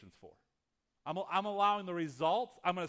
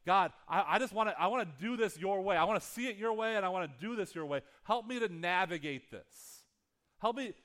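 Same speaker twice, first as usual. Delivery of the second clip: earnest prayer; 3 semitones higher, 4 dB louder than usual. Retold or imitated. Acted prayer in sermon.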